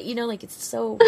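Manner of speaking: soft, high laughing. Real, not acted. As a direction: laugh it out quietly. Laughing trailing off.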